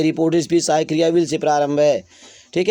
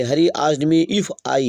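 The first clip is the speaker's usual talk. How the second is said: slow dictation; much slower than usual. Shown as a demonstration. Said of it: "dictating the sentence slowly".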